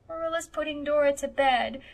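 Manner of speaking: high-pitched, acted tearful little boy; sobbed. A narrator's reading. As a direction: wail it like an upset child. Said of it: "sobbed Davy".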